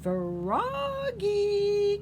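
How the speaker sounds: high, loud drawn-out call. A narrator's reading. Mother calling Froggy back inside, high and loud. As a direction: call him in from far away. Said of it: "called his mother".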